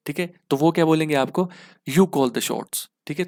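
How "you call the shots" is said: slow demo phrase. Shown as a demonstration. Teacher demoing what friends say.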